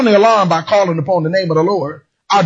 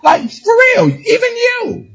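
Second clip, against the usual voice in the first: mean it; 14 semitones higher, slower than usual. Shown as a demonstration. Preacher shows the congregation how to say it. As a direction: say it like you truly mean it. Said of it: "You gotta say it like you mean it".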